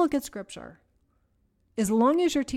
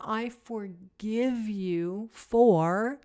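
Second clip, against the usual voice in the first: slow self-forgiveness; much slower than usual. Shown as a demonstration. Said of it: "really, it's seven times".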